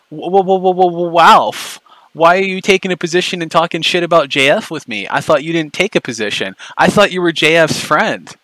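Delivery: high, stuttering mock outrage; sneering high stammer, taunting Ralph. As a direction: stammer as if scandalised, mocking him. Mocking Ralph with fake stammering.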